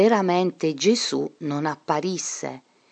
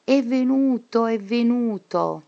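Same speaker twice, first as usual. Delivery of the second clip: endless mad cry; 7 semitones higher than usual. A narrator's reading. Teacher locked in the asylum crying out endlessly, high obsessive shout. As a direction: repeat it like an obsession. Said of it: "grida continuamente".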